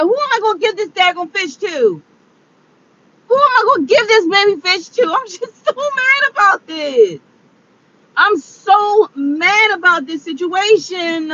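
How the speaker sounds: real high-pitched tearful whine; crying. Real, not acted. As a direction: wail in upset, stretching the words. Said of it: "I'm sitting up here crying".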